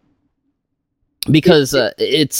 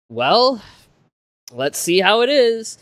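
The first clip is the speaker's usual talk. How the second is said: higher-pitched hesitant resignation; mild dread; 7 semitones higher, slower than usual. Retold or imitated. Returning fan about to rewatch an old show, mildly dreading. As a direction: brace for disappointment, voice lifted. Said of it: "like, dreading".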